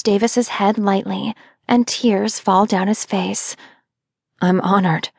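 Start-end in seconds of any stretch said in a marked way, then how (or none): 4.4-5.1 rasping, choked up; raspy. Acted. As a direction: rasp it out with tears. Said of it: "he rasps".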